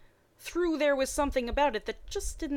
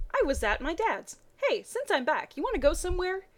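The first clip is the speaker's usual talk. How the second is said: higher, brighter Ash; brightening more on each line; getting happier; 8 semitones higher, 4 dB louder than usual. Acted. Ash getting happier as he asks Misty out. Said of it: "getting happier every second".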